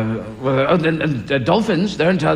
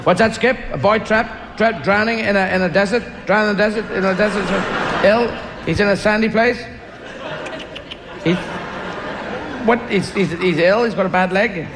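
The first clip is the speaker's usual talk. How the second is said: eager charades guesser; 3 semitones higher than usual. Acted. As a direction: guess each clue eagerly like a kid watching TV. Skippy owner guessing clues.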